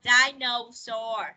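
Dinosaur slow, first syllable DI leaned on; slow teacher model, stress on DI. Shown as a demonstration. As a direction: model Dinosaur slowly, first beat strong. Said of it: "Nhấn âm đầu".

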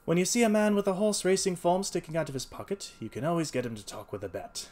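high, loud amused detective, easing down; lightly amused, pleased with the trick; chuckling. A narrator's reading. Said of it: "said he, chuckling".

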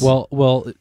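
lightly voiced impression; a hint of a put-on voice; Damon. Shown as a demonstration. Showing how Damon talks, light mimicry. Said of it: "Damon sounds more like this".

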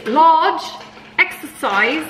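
put-on British accent. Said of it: "We're not in Britain".

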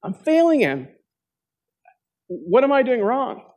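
a hint of a humble wife praying. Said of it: "She prayed".

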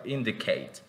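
"indicate" with a brief first I; careful model of "indicate"; short I demonstration. Shown as a demonstration. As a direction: say "indicate", opening vowel barely articulated. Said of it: "como es corta".

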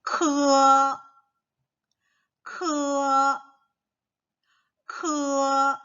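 high 크어 with a breathy rasp, said three times; model syllable repeated. Shown as a demonstration. Teacher drilling 크어 with children. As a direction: repeat 크어 clearly for copying. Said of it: "K가 아니겠죠".

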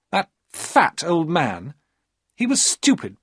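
young woman mocking her husband; scornful high female voice; Maria's contempt.

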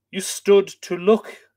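slow, loud, high accusation; snarling chief. Acted. The chief accuses his servant of standing by, slow snarl. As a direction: bite each word at the servant. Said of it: "the chief snarled".

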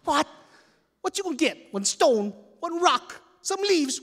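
high loud frantic questions; panicked. Retold or imitated. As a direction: rattle it off in panic. Panicked kid in temple.

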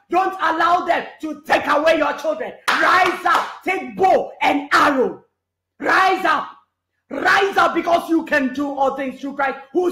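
rally the congregation, hammering each repeat; fiery preaching. Acted. Preacher urging the church to rise up, fiery shouted preaching.

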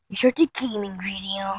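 low, soft half-whisper; hushed aside. Pretend. Vlogger giving in before a gaming video, hushed. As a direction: let the voice drop into a whisper.

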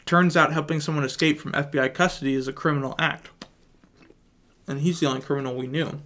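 talking around chewing gum; mouth full. Real, not acted. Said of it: "the pieces of gum in my mouth right now".

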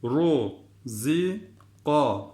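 heavy "ru", plain "zi", heavy "ka"; thick "ru" and "ka". Shown as a demonstration. Teacher models thick letters, heavy "ru" and "ka". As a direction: sound out "ru, zi, ka", thickening first and last. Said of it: "Bu da kalın, bu da kalın".

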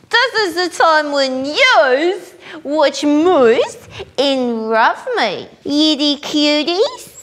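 lightly voiced childlike Yeti, broken English; Yeti character voice. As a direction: play a cheerful dim creature host greeting fans. Yeti character hosting show.

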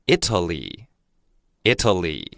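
Italy said slowly and clearly twice; teacher's model word. Shown as a demonstration. Teacher to students, slow careful model. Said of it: "意大利英文叫Italy".

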